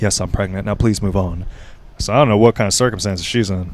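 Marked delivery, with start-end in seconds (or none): 0.0-1.5 imitated shameful, shamefaced tone. Retelling someone's answer to a question, imitating a shameful tone. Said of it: "in a almost, like, shameful way".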